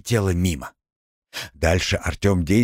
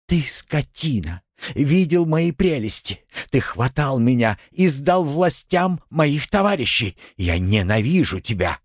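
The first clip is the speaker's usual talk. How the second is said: put-on angry girl; 6 semitones higher than usual. A narrator's reading. Captive girl hurls hatred.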